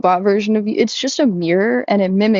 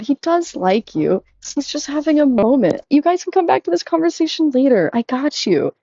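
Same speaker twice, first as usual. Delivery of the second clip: higher, soothing fake-therapist tone; mock reassuring chatbot; 5 semitones higher than usual. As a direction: imitate the bot comforting her about the guy. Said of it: "They're like".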